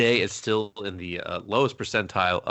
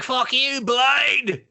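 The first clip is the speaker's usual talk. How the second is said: high-pitched mock yell; acted-out taunt; 5 dB louder, much slower than usual. Retold movie taunt, acted out.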